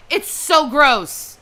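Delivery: "It's so gross" dragged out, slow and weighted; slow down and lean on "so gross"; slow disgusted repeat. Real, not acted. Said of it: "It's so gross what these people do".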